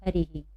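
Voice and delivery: "हरी ही" joined, ending in ही for the visarga; visarga demonstration. Shown as a demonstration. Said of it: "क्या पढ़ेंगे?".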